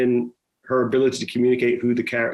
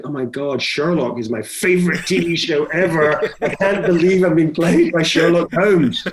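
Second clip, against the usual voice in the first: excited fanboy; 4 semitones higher than usual. Retold or imitated. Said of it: "he became this sort of fanboy".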